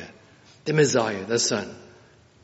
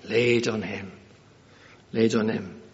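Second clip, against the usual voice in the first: "Laid on him" said weightily, with a pause before repeating it; heavy emphasis; 3 semitones lower than usual. Shown as a demonstration. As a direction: let "Laid" fall heavily each time. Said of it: "It's a heavy phrase".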